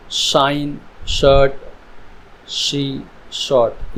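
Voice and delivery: spaced example words, each starting on a clear SH like शाइन; SH sound shown. Shown as a demonstration. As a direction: model the opening SH in शाइन, शर्ट, शी, शॉर्ट. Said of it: "sound निकल रही है वो श". (शाइन, शर्ट में श की साफ़ आवाज़)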